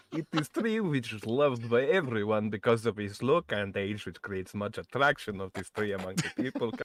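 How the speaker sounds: put-on Polish accent. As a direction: read it like a Polish speaker. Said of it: "That's my Polish accent".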